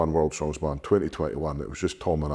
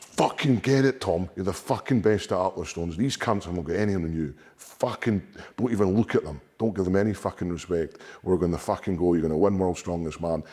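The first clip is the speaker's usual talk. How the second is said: pep talk yell; 2 semitones higher than usual. Retold or imitated. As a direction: shout him into belief. Narrator psyching up his brother.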